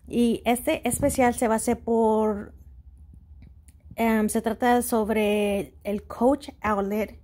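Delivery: Spanish with an American accent; English speaker's accent in Spanish. Real, not acted. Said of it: "mi español no está perfecto".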